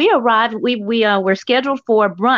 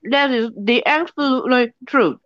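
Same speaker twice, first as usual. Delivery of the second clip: talking with mouth full of oatmeal; 3 semitones higher than usual. Real, not acted. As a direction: speak round a mouthful of food. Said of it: "I'm eating oatmeal too".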